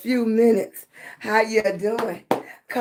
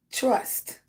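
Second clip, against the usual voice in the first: whispered word; 3 semitones higher, 5 dB quieter than usual. Real, not acted. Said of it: "emphasizing the word of the day".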